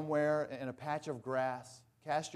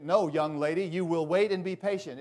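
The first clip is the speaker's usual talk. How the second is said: stern father; 2 semitones higher, 7 dB louder than usual. Retold or imitated. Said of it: "her father said".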